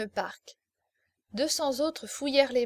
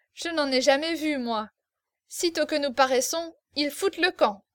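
gleeful; 3 semitones higher, 4 dB louder than usual. Acted. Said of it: "rendu très gai par le vin".

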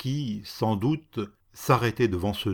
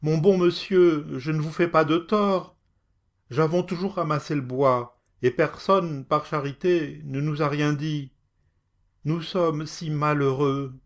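higher, pleading and plaintive; moaning plea; 6 semitones higher than usual. Acted. Poor woman on the ground begging the cat. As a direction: beg the lord for mercy. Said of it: "gémissait".

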